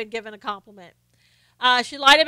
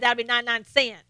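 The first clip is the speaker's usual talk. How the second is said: put-on thick Southern accent; faster than usual. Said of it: "I did not understand her".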